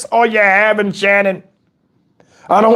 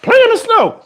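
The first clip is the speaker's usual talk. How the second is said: mock scripture reading; 11 semitones higher than usual. Repeating the mock verse.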